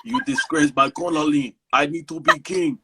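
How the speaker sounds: lightly voiced Nigerian-style accent; a hint of a Wakanda warrior's accent; M'Baku's African accent. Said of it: "that was his African accent".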